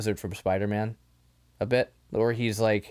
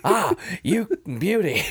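slow, higher mock-Australian cheer of "beauty"; hammed-up Australian Kano; mock Australian accent; 6 semitones higher, 4 dB louder than usual. Quoting Kano in the film.

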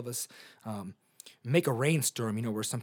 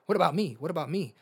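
selfish whine; 4 semitones higher, 4 dB louder, faster than usual. Retold or imitated. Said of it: "It's very selfish".

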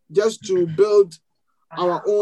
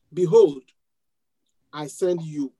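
slow, deliberate verse reading. Shown as a demonstration. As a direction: read scripture in deliberate, separated parts. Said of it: "I'm going to read this verse slowly".

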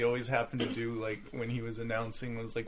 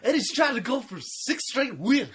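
Harry Carey impression; 11 semitones higher, 5 dB louder than usual. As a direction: boom it out like an old baseball announcer. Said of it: "do a little Harry Carey".

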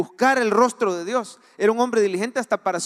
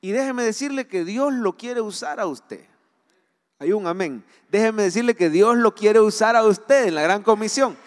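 fervent sermon delivery; preaching. Acted. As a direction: preach it to the congregation. Preaching to congregation. (predicación fervorosa)

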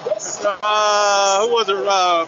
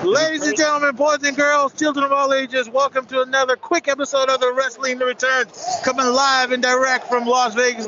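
booming ringmaster intro, pitched up; 4 semitones higher than usual. Pretend. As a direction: announce it like a circus ringmaster. Opens the show like an announcer.

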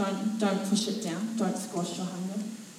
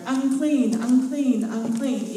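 calling out unclean; 4 semitones higher, 5 dB louder, much slower than usual. Retold or imitated. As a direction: call out a warning, falling each time. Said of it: "walk around going".

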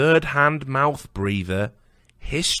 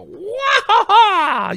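high, loud, drawn-out martial arts cry; karate yell; 8 dB louder, much slower than usual. Pretend. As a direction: belt out a kung fu battle cry. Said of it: "You make a karate noise".

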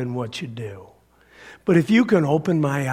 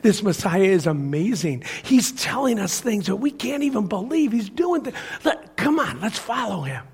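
higher, eager rush of an invitation; Philip's excitement; 4 semitones higher than usual. Acted. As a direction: act out an excited friend urging him along. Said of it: "Nathanael heard Philip's excitement".

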